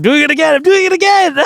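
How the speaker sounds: high, loud laughing self-callout. Real, not acted. Laughs at own hand gestures.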